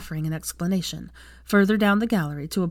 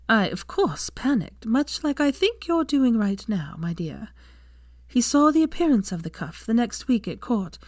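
Lillian, kindly noblewoman; 3 semitones higher than usual. Acted. Lillian tells her story.

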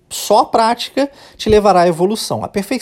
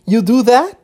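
higher-pitched mock question, rising on "that"; teasing; 5 semitones higher, 3 dB louder than usual. Friend poking fun at her pal, teasing question. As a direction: tease with a rising, incredulous question. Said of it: "tirando sarro com a cara dela".

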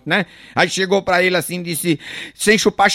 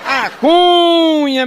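stretched-out high call of "A Cunha"; catchphrase shout; 10 semitones higher, 5 dB louder, much slower than usual. Acted. Comedian opening a joke with a long drawn call. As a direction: belt out "Cunha" slow and high.

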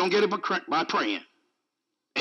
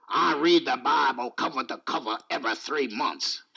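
much lower, boastful reader voice; speed reader; 9 semitones lower than usual. Acted. Speed reader bragging about Bible reading, mock-important low voice. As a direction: put on a low, self-important voice. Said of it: "You know them speed readers?".

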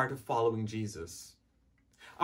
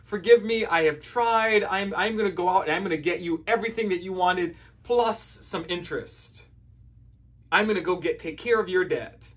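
pleading debtor. Retold or imitated. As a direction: plead with the king for more time. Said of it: "he begs and he pleads and says".

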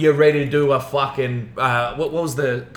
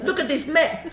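much higher, laughing mock Asian accent on "Look at this mess". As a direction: ham up the mum with an Asian accent. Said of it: "putting on an Asian accent".

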